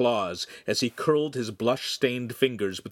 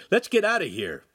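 raised, pressing plea; urging; 9 semitones higher, 4 dB louder than usual. A narrator's reading. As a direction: press your friend to come away. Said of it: "Handsome urged".

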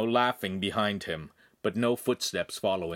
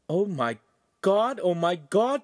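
high, rising dismay; horrified; 9 semitones higher, 4 dB louder than usual. A narrator's reading. Friend absorbing news of the attack, high horrified exclamation. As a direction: exclaim in mounting alarm, voice climbing.

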